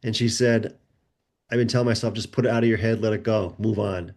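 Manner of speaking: low, heavy retold confession; subdued grief. Mother confiding about her lost son, subdued.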